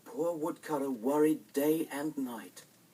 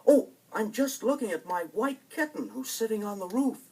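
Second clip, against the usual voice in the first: put-on childlike Hansel; 9 semitones higher, 5 dB louder than usual.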